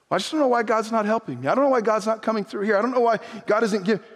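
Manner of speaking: fast, whiny grumble; mock complaining. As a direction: rattle off the complaint quickly. Complaining believer quoted.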